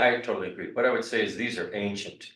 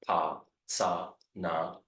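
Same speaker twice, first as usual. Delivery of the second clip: one syllable at a time; slowly, syllable by syllable; 3 semitones lower, much slower than usual. Shown as a demonstration. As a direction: spell out each syllable slowly. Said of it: "Would you say it again slowly?".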